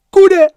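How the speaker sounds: "Kude" squealed very high and loud, falling; "Kude" popped out high and sharp; high exclaimed "kude". Shown as a demonstration. Teacher showing the sound of the word, high exclaim. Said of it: "See how it sound?".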